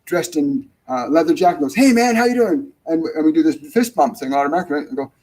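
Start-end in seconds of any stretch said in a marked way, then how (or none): 1.8-2.7 high, casual stranger's hello; friendly street greeting. Retold or imitated. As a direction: greet him like a friendly passer-by.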